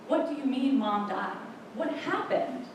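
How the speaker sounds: retold stunned question, rising high at the end; bewildered. Daughter presses her father for answers, bewildered.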